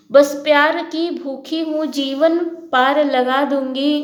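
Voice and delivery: poem recitation. Acted. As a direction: read each line out like a heartfelt verse. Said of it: "सुनो मैं सबको पढ़ के सुनाता हूँ".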